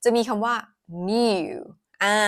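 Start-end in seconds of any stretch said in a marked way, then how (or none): 1.1-1.5 "new" said as nyoo; British y glide. Shown as a demonstration. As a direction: say "new" with a y before the oo. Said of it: "ถ้าเป็น American น่าจะเป็น new". (ออกเสียง "new" เป็น นิว แบบอังกฤษ)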